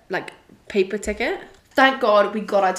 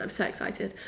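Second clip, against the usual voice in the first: excited whisper; 10 dB quieter than usual. Real, not acted. Gushing about the concert night.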